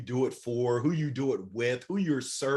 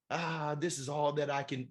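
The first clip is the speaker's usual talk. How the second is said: self-doubting voice; 5 dB quieter than usual. Retold or imitated. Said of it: "we limit ourselves".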